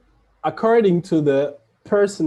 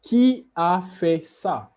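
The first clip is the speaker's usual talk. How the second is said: "Qui a fait ça?" slow, a touch higher and louder; slow model question; 5 semitones higher, 4 dB louder than usual. Shown as a demonstration. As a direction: ask it slowly so students hear each word. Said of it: "a small conversation".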